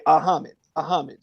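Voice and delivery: Muhammad cut down to Ahmed; daughter's mispronunciation. Retold or imitated. Father quoting his little daughter trying his name, childish mispronunciation. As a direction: drop the opening M, like a child. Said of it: "my daughter used to say".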